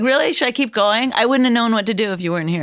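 high, fast mock gushing; mock surprise. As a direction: gush with fake amazement. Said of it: "I was like".

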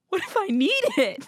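very high squeal through laughter; laughing panic. Retold or imitated. Man in bed imagining needing the gadget, laughing panic. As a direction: squeak it out in hammed-up, giggling dread.

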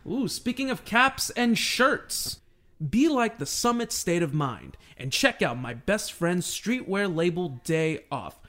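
upbeat host ad read. Acted. Podcast host reading a sponsor spot, upbeat ad read. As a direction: pitch the sponsor like a radio spot.

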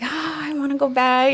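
pine for it, half in jest; mock pining. Confessing her old weakness to the hosts, mock pining.

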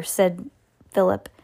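plain reading voice

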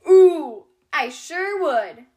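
lightly voiced eager dinosaur, slow and drawn out; eager dino. A narrator's reading. Bronte the dinosaur eagerly accepting the tea party invite. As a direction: bounce with delight at the invite.

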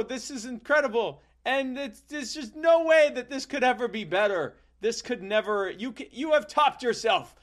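put-on high, loud overjoyed boy; gushing child. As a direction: gush with delight. Young self gushing in story.

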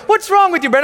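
high-pitched mock yell; hammed-up, high accusing cry; mimicked indignant friend. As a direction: call it out as a baffled college friend. Acts out college friends' reaction.

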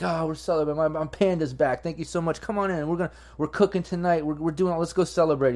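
lightly voiced happy host; cheerful host. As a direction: call them in to celebrate. Poppy welcomes them back.

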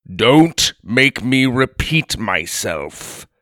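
thundering giant. Acted. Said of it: "thundered the giant".

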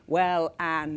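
put-on lightly French-accented CEO; a hint of a French accent. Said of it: "in wonderful French accent".

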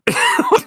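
squeaky burst of laughter; high laugh. Real, not acted. Laughing at Usagi joke.

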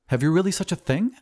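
high-pitched astonished question; amazed. Acted. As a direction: ask in eager disbelief. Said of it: "cried the glassblower".

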